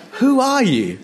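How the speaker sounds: very high, swooping demand; high-pitched mock challenge; challenging question. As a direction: throw it out high and let it fall. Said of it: "That's how they answer".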